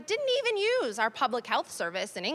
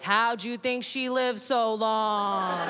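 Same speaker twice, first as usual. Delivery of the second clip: tart comeback; 2 semitones lower, much slower than usual. Retold or imitated. Retorting to the rude man.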